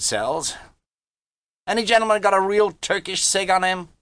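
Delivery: put-on high, indignant young braggart; boastful boy. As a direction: protest like a cocky youngster. Harvey brags to the men.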